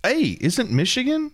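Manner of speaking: high, hammed-up New York accent; a jokey New York accent; mock New York accent asking about Michigan; bad New York accent. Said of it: "We're just doing terrible New York accents now".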